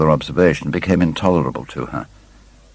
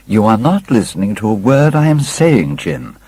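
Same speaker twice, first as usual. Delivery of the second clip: higher, livelier sister's reproach; playful cry; 5 semitones higher than usual. Acted. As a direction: scold him brightly to get his attention. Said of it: "cried Sybil".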